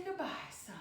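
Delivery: quiet, gentle goodbye. Shown as a demonstration. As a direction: let it fall away softly. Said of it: "and say".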